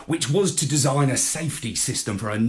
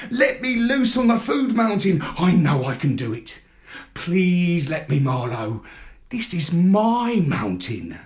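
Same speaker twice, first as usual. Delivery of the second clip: pleading; 6 semitones higher than usual. A narrator's reading. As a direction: beg with your whole heart. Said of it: "my pleas".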